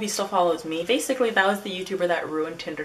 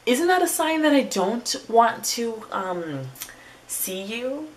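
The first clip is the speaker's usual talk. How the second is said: incredulous hinting; 6 semitones higher, slower than usual. Acted. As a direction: ask it high, as if it were obvious. Exasperated aside on her reluctance.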